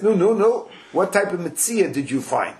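a lightly voiced busybody; nosy passerby. Stranger stops the groom on the street, prying. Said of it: "he says".

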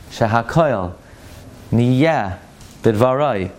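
Shehakoil Niyeh Bidvarai word by word, each distinct; careful pronunciation. Shown as a demonstration. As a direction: say Shehakoil with stress on KOIL, then pause between Niyeh and Bidvarai. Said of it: "say the words slow enough".

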